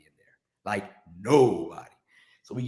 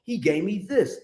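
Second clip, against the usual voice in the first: slow motion; 7 semitones higher, slower than usual. Shown as a demonstration. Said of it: "In slow motion".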